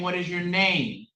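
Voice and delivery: slowed right down, each word spelled out; slow and deliberate. Shown as a demonstration. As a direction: say it slowly, word by word. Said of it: "I know you understand me when I'm saying".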